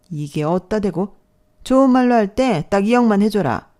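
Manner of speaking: loud menacing demand; furious money demand; threatening demand. Acted. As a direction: lean in and threaten.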